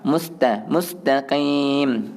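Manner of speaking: drawn-out "mustaqim" with a clean "ta"; correct ta. Shown as a demonstration. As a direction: clear light "ta" in "mustaqim". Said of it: "bukan ta".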